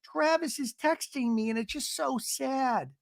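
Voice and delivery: imitating Gina. Gina confiding in Emily, a high mock whine. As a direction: lift it up high like a sad whine. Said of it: "Gina tells Emily".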